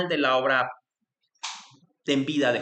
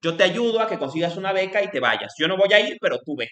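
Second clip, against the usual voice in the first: lightly voiced encouraging mentor; 4 semitones higher than usual. Nishida urging Tanabe to go to Germany, lightly voiced encouragement. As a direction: cheer the student on. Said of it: "Nishida le dice".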